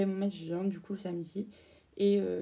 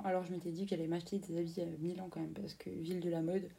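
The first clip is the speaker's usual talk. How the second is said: unvoiced whisper, a bit quicker at first; whispered aside; 5 dB quieter than usual. Real, not acted. Whispering to viewers about buying clothes in Milan, a hushed aside. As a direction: let this slip out as a secret side note.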